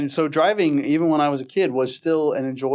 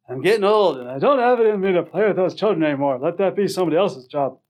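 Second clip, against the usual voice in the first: put-on higher, quicker cranky old Jewish man; 4 semitones higher, faster than usual. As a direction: kvetch it like a grumpy Jewish uncle. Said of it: "Ah, Jewish man" voice".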